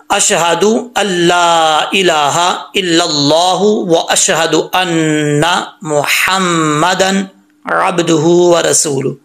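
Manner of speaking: slow, measured Arabic recitation; careful recitation. Shown as a demonstration. Teacher modelling the next line, slow recitation. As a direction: recite with long held vowels and every sound clear. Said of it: "mistake क्या करते हैं लोग".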